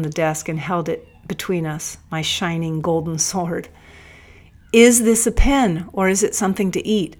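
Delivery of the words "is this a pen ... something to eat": higher and louder, a forceful challenge; loud demand. A narrator's reading. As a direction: demand it, then rush the second half. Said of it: "I demanded".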